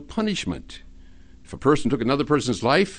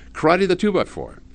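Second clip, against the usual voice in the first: command; 7 semitones higher than usual. Acted. Shop owner commands the parrot.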